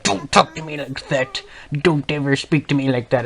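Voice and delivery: a hint of a stern supervisor, firm and cold; stern scolding. ISS room lady scolding the new student, sternly. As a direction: put a cheeky kid in his place.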